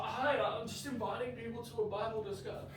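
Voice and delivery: halting, unsure opener full of uhs; hesitant invite. Shown as a demonstration. Practising an invite at Bible talk, hesitant and halting. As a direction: fumble the invitation like a nervous first-timer. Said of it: "Try it again".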